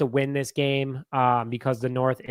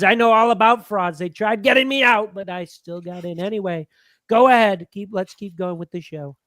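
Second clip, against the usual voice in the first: higher-pitched comic announcer-like put-on voice; put-on character voice; 4 semitones higher than usual. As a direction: do the bit in a raised character voice. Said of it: "do the voice".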